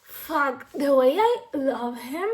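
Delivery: loud emotional gush; real gushing. Real, not acted. Reader gushing about a book character, loud and emotional. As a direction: pour out the love for him.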